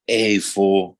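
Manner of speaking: imitating a defeated, drunk brother; low, heavy address, retold as defeated. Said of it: "he was, like, defeated".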